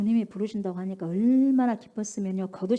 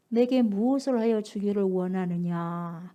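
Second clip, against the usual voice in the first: gentle question; 4 semitones lower, slower than usual. Acted. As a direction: ask kindly, taking time. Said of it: "예수께서 말씀하여 이르시되".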